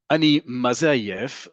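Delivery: slow sing-song lilt on "Ani maze ayef". Shown as a demonstration. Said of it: "You hear a little bit of a sing-song in there".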